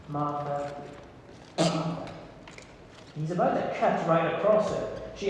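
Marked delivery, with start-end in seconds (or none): 0.1-2.1 gentle, hushed calling of her name; soft. Acted. Jesus gently calling Martha's name. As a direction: speak her name softly to calm her. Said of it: "deals with her softly".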